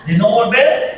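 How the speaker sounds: shouted repeat of "de no volver"; preacher shouts "de no volver", rising; emphatic repeat. Real, not acted. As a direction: hammer "de no volver" home with a shout.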